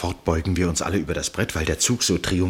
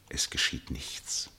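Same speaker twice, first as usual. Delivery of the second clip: slow, low hushed whisper; 6 semitones lower, 9 dB quieter, slower than usual. A narrator's reading. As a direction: barely breathe the words. Narrator in tense silence.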